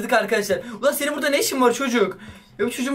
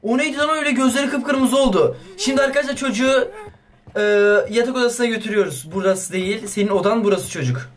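ordinary talk, nothing marked

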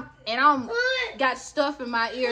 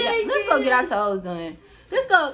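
eager invitation; 3 semitones higher, 4 dB louder than usual. Retold or imitated. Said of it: "I'm like".

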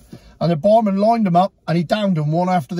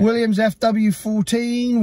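Antiques Roadshow expert; 4 semitones higher, slower than usual. Pretend. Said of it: "I'll do Antiques Roadshow on it".

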